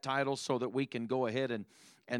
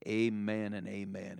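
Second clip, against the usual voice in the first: spoken prayer. Real, not acted. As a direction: lead a church prayer.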